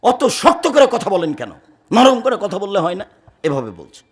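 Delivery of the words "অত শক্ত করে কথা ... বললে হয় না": retold loud complaint. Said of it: "বলছে খুব জোরে".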